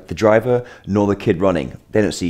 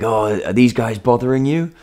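slightly higher, lightly put-on concerned question; joking mock concern; 5 semitones higher than usual. Passer-by joking to the younger kid, mock-concerned. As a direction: ask as a teasing joke. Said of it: "I wanted to make the joke".

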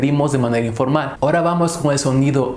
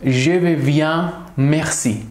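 slow demo; much slower than usual. Shown as a demonstration. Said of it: "En el caso de ser positiva".

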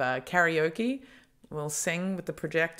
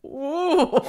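put-on African accent; 12 semitones higher, 6 dB louder than usual. Echoes the accent playfully.

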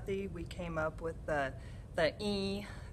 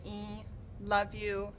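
slow fond catchphrase; much slower than usual. Retold or imitated. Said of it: "always gonna continue to say".

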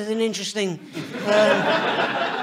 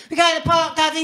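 put-on toddler voice; 4 semitones higher, faster than usual. Toddler voiced in car story.

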